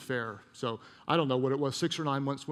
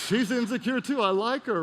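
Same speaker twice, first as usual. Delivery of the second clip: high, louder, hammed-up delight; gleeful mock relief; 9 semitones higher, 5 dB louder than usual. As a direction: gloat playfully, pitched way up. Gleeful discovery of rival's flaws.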